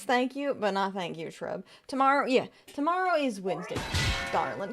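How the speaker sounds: a hint of a sugary Southern mom; Southern mommy accent. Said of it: "stuck in the Southern Mommy accent".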